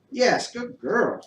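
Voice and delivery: high, slow, delighted praise for the dog; excited praise. Real, not acted. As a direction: sing the praise up high and stretch it out. Praising dog after trick.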